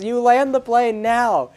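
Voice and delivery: loud, high, slow shouted command; Iggy's last yelled demand to the pilots; slow yelled order. Retold or imitated. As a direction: spell out each word as a threat.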